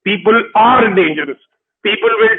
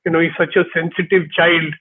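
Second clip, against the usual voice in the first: doting mother; 3 semitones lower, 5 dB quieter than usual. Retold or imitated. Mother cooing over her crying son, softly. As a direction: coo it like a fond mother. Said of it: "my mom says".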